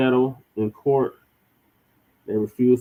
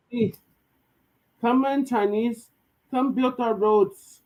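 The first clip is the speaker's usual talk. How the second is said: mock high put-on voice; 11 semitones higher than usual. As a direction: beckon the workers in, hammed-up. Mock voice inviting Chinese workers.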